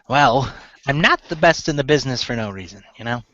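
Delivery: lightly voiced gnome woman; a hint of the gnome character. Gnome seamstress answering praise of her measurements, light gnome voice. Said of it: "let me get my gnome voice on".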